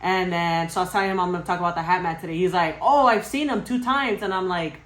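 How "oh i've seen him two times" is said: high, drawn-out exclamation; slow, high-pitched "oh" of recognition; retold excited reaction. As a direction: imitate brother's eager surprise. Brother's eager reaction, retold.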